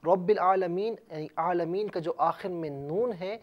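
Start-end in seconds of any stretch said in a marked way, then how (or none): 0.0-0.9 رب العالمین recited louder with a rising end; teacher reciting رب العالمین; recited demonstration. Shown as a demonstration. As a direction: sound out رب العالمین clearly, ending on a rise. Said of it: "الرحمن کی را کو رب العالمین".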